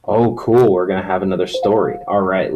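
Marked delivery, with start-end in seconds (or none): 0.1-0.7 playful gasp of delight; mock surprise.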